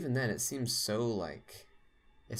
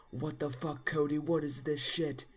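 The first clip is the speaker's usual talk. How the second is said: high mock yell at the kid; mock scream; 7 semitones higher than usual. Dad shrieks at Cody over the ink, high mock yell. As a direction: shriek it like the furious dad finding the mess. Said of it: "he, like, screams".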